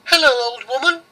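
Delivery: put-on high, bright little girl; girl's voice. Girl greets old Baba Yaga, high and polite. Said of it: "The girl said".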